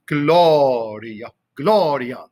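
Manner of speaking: stretched GLO-ria, then a shorter GLO-ria; first-syllable stress. Shown as a demonstration. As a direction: demonstrate Gloria with weight on each GLO. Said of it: "emphasis on the first syllable".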